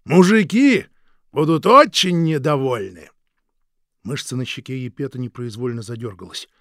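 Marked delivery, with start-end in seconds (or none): 0.0-3.1 loud, higher, leering and slow; coarse mocking. Guard mocking the husband's offer, coarse and loud. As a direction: jeer at him with a laugh in it. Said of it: "хрипло загоготал".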